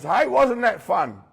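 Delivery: high, slow, drawn-out call; high, stretched, teasing greeting; cool kid calling. Acted.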